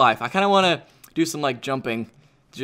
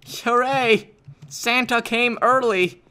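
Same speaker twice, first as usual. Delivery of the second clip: higher, drawn-out happy cheer; delighted cheer; 5 semitones higher, much slower than usual. Real, not acted. Player finding a bunch of presents, delighted. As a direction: celebrate like presents just arrived.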